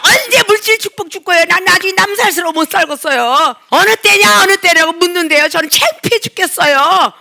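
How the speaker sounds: whiny, accusing mock prayer with a cry in it; complaining prayer. Believer pointing fingers at God, mock whining complaint. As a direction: scold God like a sulky believer. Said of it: "삿대질하면서 기도하는 사람".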